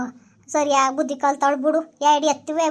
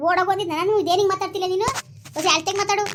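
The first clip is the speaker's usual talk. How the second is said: higher-pitched, argumentative retort; indignant protest; 4 semitones higher than usual. Acted. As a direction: push back against the blame. Acted family quarrel, protesting blame.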